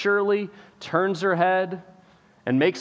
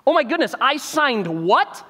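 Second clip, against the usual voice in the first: shocked king; 6 semitones higher than usual. Retold or imitated. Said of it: "he's finally putting together".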